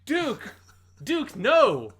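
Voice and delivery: loud, understated cry of a friend's name; flat dub grief. Retold or imitated. Podcast host voicing Kai as Duke dies, understated. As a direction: call out with barely any grief. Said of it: "Kai goes".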